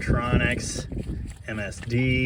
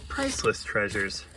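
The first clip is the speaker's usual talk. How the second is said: hushed awe; 5 semitones lower, 6 dB quieter than usual. Acted.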